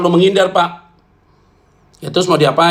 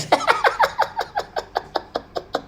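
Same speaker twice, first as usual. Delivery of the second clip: high laugh; 8 dB quieter than usual. Real, not acted. Bursts out laughing at own joke.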